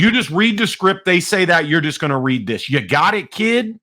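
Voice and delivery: lightly imitated New Jersey trainer; brisk instructions with a New Jersey edge; New Jersey accent. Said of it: "He's New Jersey, too".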